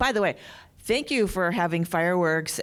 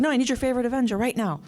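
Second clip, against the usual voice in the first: pushy host; 7 semitones higher, faster than usual. Retold or imitated. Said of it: "and he was like".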